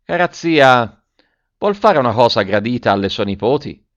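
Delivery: boy coaxing the aunt with mock seriousness; serious tone. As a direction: put on a grave little-gentleman tone. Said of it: "col tono serio che meritava la circostanza".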